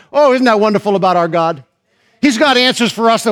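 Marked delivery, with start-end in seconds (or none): none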